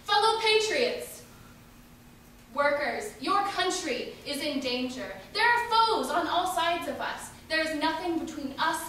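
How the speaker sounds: hammed-up patriotic warning from the podium; voice of authority. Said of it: "is heard the voice of authority".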